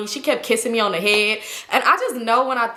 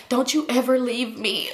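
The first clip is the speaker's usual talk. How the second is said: laughing plea; 2 semitones higher, slower than usual. Retold or imitated. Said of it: "And I'm like".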